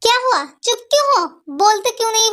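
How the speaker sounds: high, sharp demand; angry demand. Acted. Angrily demanding an answer from the silent friend. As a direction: push her to answer now.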